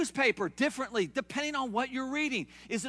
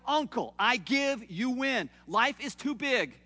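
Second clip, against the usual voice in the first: giving up; 2 semitones higher, 3 dB louder, slower than usual. Retold or imitated. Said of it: "and I go".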